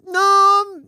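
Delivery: high, loud drawn-out no, retold; strained reassurance. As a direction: answer a panicking child, unconvincingly. Mother answers panicking child.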